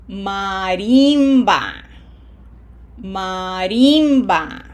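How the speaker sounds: slow maRIMba, long loud Spanish "RIM"; stress on middle syllable. Shown as a demonstration. Teacher models Marimba, not like English, RIM stressed. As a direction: stretch RIM in Marimba with an "ee" vowel. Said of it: "we don't pronounce this word like we do in English".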